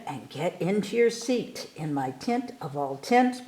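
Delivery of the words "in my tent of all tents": usual speaking voice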